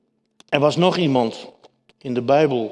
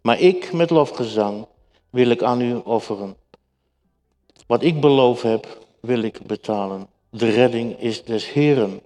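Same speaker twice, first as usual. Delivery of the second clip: measured, slightly raised Bible reading; scripture reading. Acted. Preacher reads Jonah's prayer to the congregation, solemn reading.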